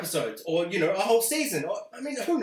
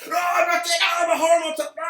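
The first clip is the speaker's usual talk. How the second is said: higher, louder shout of a horror monster; horror villain rising; 10 semitones higher, 7 dB louder, faster than usual. Retold or imitated. Dexter imagined as a Scream-style villain, shouting. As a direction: yell it like a slasher back from the dead. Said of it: "a moment like in Scream where he's like".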